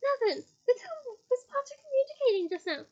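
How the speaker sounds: high, loud interrogation; demanding. Acted. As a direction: demand the answer. Umbridge interrogating.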